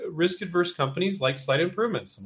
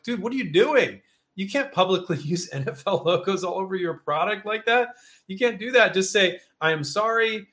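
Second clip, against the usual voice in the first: higher, incredulous telling-off of a student; teacher scolds student over logos, exasperated and high; exasperated scolding; 5 semitones higher than usual. Retold or imitated. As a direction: scold a careless student, disbelieving.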